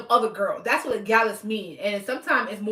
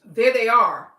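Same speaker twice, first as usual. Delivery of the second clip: loud emphatic repeat; 7 dB louder than usual. Real, not acted. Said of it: "they said".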